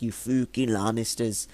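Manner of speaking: imitated northern accent, "fooking" for "fucking". Fan quoting characters cursing the Lannisters, imitated northern accent. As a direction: put on a Game of Thrones northern accent. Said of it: "like, northern accents".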